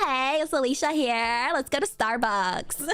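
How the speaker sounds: put-on chirpy Valley Girl introduction. Alicia invites friends to Starbucks, Valley Girl accent. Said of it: "trying to think of your Valley name".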